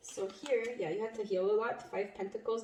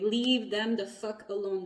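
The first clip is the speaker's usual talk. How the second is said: slow, firm, a bit louder; stern warning; 4 dB louder, slower than usual. Retold or imitated. Guardians warning off the exes, slow and firm. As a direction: lay down the law slowly. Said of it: "your guardians are like".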